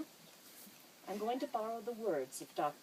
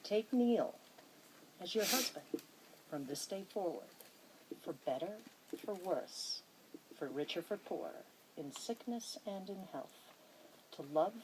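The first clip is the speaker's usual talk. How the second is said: formal vow reading. Acted. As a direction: read each vow clause with weight, like an officiant. Officiant reads the wedding vows.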